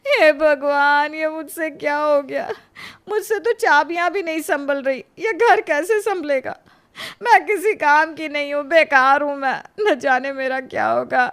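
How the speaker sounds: hammed-up helpless weeping over broken keyring; fake crying. Daughter-in-law laments broken keys, hammed-up sobbing. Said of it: "पर रो मत बेटा".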